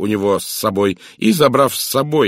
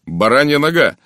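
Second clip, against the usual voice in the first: loud, higher exclamation; involuntary cry; 6 semitones higher, 7 dB louder than usual. A narrator's reading. Narrator blurting out his sudden realisation, crying out. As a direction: cry out before you can stop yourself. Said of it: "Я невольно вскрикнул".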